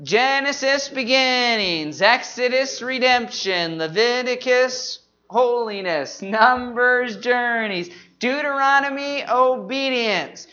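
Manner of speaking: measured chant-like list, books and key words drawn out; group recitation. Shown as a demonstration. Teacher leading the congregation through books and key words, measured group recitation. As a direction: lead the room through it in unison. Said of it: "let's say 'em together".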